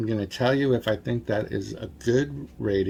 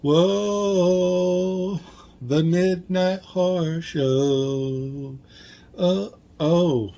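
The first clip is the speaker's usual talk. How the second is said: excited; 7 semitones higher, 3 dB louder, much slower than usual. Real, not acted. Reaction right after the trailer.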